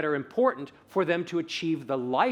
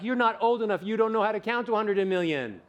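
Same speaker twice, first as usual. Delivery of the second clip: higher-pitched mock objection; raised, mocking quoted voice; dismissive imitation; 5 semitones higher than usual. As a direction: voice a doubter putting someone down. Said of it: "And they're like".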